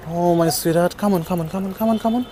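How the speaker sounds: hushed, repeated encouragement after the alarm; tender coaxing. Real, not acted. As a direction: gently coax a frightened pet towards you. Coaxing the distressed dog to come.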